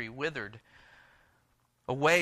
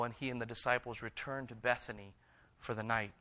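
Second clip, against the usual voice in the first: ordinary talk, nothing marked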